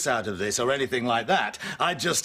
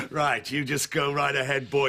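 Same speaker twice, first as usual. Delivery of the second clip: words through a mocking laugh; laughing scornfully. Old neighbour daring the young man to sue, laughing. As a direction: dare him while still laughing.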